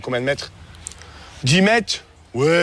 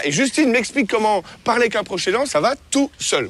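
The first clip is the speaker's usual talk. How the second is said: muffled through a mouthguard; talking with a mouthguard; 2 semitones higher than usual. Real, not acted. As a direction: mouthguard in, words blurred. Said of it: "j'arrive pas du tout à parler avec ça".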